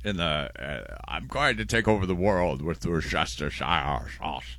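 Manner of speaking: slow hammed-up British villain; a half-hearted British accent, slow; mock British accent. Host tries a British voice and admits it is wrong. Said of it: "I'm not doing it right either".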